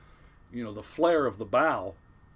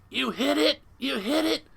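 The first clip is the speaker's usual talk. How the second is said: high, loud furious shouting; imitated yelling; 14 semitones higher, 6 dB louder than usual. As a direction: yell it accusingly at the engineer. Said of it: "he starts yelling at the engineer".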